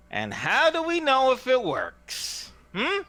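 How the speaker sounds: high, drawn-out wispy question; wispy, light woman's voice. Acted. Woman off to one side questions the hawker, wispy and light. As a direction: lift it light and wispy, drawing it out slowly. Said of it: "a wispy, light voice belonging to a woman".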